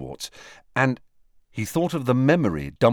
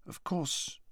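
whispered brooding aside; 8 semitones higher, 12 dB quieter than usual. A narrator's reading. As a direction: breathe it darkly, almost whispered. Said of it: "she added broodingly".

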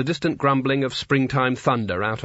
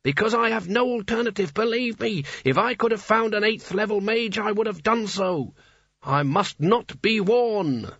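talking hat; 8 semitones higher than usual. A narrator's reading. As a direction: speak as an ancient proud hat. Narrator voices the hat.

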